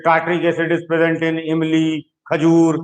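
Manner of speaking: very slowly reading out a question stem; reading an exam question. Retold or imitated. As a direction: drag it out like a question paper. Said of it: "मत expect करना कि ऐसे question". (प्रश्न को बहुत धीरे-धीरे पढ़ना)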